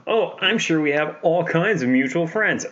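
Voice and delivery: high, sassy mock politeness; imitating a sassy villain. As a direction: play up the sass, pitched high. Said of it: "he's sitting very sassy".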